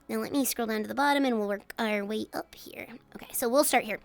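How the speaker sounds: whispering. Real, not acted. Quietly reading chat to self.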